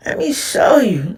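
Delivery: slow breathy whisper of let me show you. Shown as a demonstration. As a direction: whisper it slowly like a secret. Repeating the phrase in several voices.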